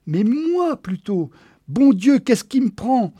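high, loud frantic cry; frantic shout. Acted. Man realising he should answer the phone, shouting. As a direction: shout at yourself in a panic.

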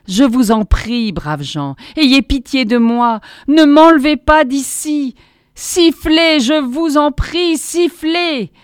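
loud plea climbing high; crying out. A narrator's reading. Prisoner begging the crowd to whistle him down, crying out. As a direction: implore them, building to high, urgent cries. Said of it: "m'écriai-je".

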